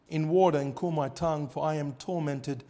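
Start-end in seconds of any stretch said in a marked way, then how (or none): none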